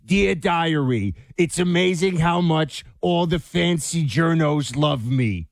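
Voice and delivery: slow, sneering Dear Diary; slow mock-precious reading of Dear Diary. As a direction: drag it out like a smug diarist. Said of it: "Fauci's writing".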